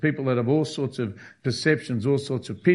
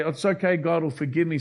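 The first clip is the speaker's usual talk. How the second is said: flippant; 4 semitones higher than usual. Retold or imitated. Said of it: "Some people are very flippant".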